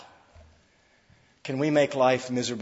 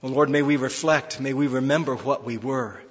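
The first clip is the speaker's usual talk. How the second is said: prayer; 3 dB louder than usual. Acted. Pastor praying for the church, hushed and reverent.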